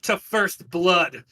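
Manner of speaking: a noble naming the terms; formal terms. Acted. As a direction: set the terms coldly. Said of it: "The other one goes".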